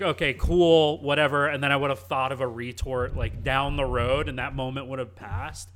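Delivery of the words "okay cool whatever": loud, offhand okay cool whatever; dismissive brush-off. Retold or imitated. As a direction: brush him off loudly. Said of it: "I would have just been like".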